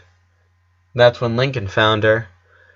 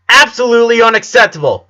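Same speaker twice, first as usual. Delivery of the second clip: loud, high, furious scolding; yelling teacher; 10 semitones higher, 6 dB louder than usual. A narrator's reading. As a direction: bellow it at the student. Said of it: "was yelling her teacher".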